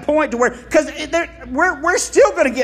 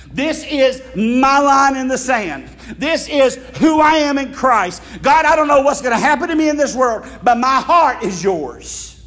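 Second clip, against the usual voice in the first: declaring preacher. Acted.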